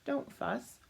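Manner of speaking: a tiny mouse soothing the bear; squeaky mouse. Acted. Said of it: "the mouse squeaks".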